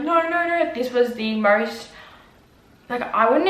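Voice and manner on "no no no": high-pitched mock panic; retold freak-out. Patient freaking out on the operating table, retold panic. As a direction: re-enact refusing in a panic, pitch jumping up. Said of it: "I was freaking out".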